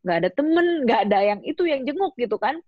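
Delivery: high, hurt lament; a high hurt whine at being left alone; bitter complaint. Retold or imitated. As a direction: complain that nobody came. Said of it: "Aku bilang".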